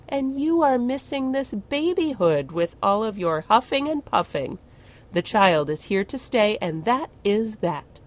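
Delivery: a hint of a stern witch lecturing; firm old witch. Witch Zan telling Glurk to enjoy the baby, firm scolding.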